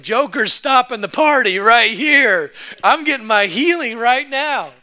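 desperate man announcing himself to the crowd; desperate demand. Retold or imitated. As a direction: belt it out, determined to get what's yours. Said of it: "this dude's desperate".

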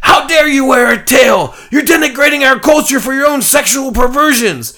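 very high, loud ranting shouts; screaming mob. Acted. Furries screaming at the old man, very high and loud. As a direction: shriek it like an angry mob. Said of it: "screaming things like".

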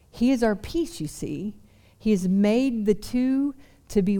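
a light hint of a British accent. Pastor channeling his favorite scholar, faint British accent. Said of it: "Just imagine it in a British accent".

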